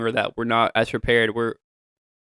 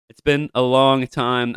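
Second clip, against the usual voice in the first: "long" drawn out and slow, the whole line slower; slow stress on long; slower than usual. Real, not acted. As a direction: lean into "long" as if feeling the gap.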